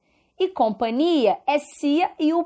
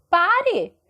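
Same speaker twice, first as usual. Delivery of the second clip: higher-pitched demonstrated command; imperative order; 5 semitones higher, slower than usual. Shown as a demonstration. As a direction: give a model order, raised on "Pare". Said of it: "dá ideia de ordem".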